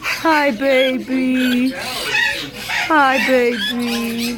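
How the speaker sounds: slow and low pet coo. Real, not acted. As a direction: coo it slowly. Cooing to pet bird.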